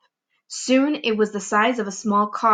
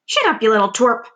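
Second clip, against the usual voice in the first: snapped; 4 dB louder than usual. Acted. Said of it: "Aunt Spiker snapped".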